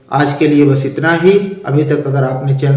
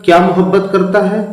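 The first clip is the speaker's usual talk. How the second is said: क्या मोहब्बत करता है said quick and higher, as a literal gloss; teacher gives the literal rendering before correcting it, quick and higher; word for word translation; 4 semitones higher, faster than usual. Shown as a demonstration. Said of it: "Urdu में इसको ऐसे नहीं बोलते".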